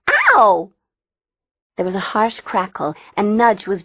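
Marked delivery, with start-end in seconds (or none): 0.1-0.7 high, loud "ow"; sudden yelp of pain. Acted. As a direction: yelp as if shocked. Jolted by an electric shock.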